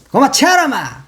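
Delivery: a quick burst of Busan dialect. Retold or imitated. Commentator citing the Busan dialect line, in Busan accent. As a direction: toss out the Busan dialect phrase. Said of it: "부산말을, 부산말로".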